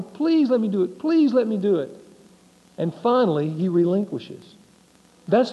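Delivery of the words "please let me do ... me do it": child begging dad to let him go, lightly voiced; child pleading. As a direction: keep begging like a persistent child. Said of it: "the child keeps going".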